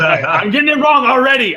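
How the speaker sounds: laughing it off, high and loud; amused self-mockery over a mistake; laughing at himself. Real, not acted. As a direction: laugh through the words after a slip. Laughing at his own slip.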